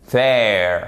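THERE with a voiced TH, tongue between the teeth; th anglais correct. Shown as a demonstration. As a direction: say THERE with a buzzing English TH. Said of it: "Vous passez votre, euh, langue entre les dents". (« there » avec le th anglais, langue entre les dents)

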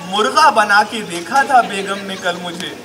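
comic Urdu poetry delivery; mushaira recitation. Acted. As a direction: recite slowly, then land the punchline firmly. Recites comic remedy verse.

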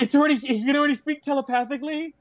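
high, loud astonished rush; can't believe the bear can talk; amazed. Real, not acted.

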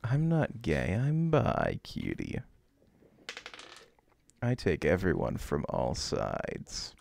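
ara ara voice. Acted. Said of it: "I had to break the Ara Ara voice".

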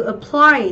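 "apply" as a-PPLY; stress on second syllable. Shown as a demonstration. Teacher modelling the verb, "apply" stressed on the second syllable. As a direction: put the weight on the last syllable of "apply". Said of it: "trọng âm sẽ giêm tiếp thứ hai".

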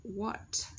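"What" starting on a plain W, H silent. Shown as a demonstration. Teacher explaining a silent letter, "What" without the H. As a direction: say "What" as "wot" with released T. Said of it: "H là âm công chúng ta không đọc".

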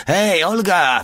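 high-pitched hailing shout; yelled call. A narrator's reading. Porta yelling to the crawling fat woman, hailing shout. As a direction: call out to her across the square. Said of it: "wrzasnął".

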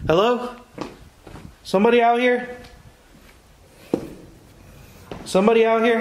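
loud, high call into an empty house. Real, not acted. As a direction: call out to whoever might be there.

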